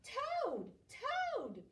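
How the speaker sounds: high, loud repeated call; cried out. Acted. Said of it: "cried Frog".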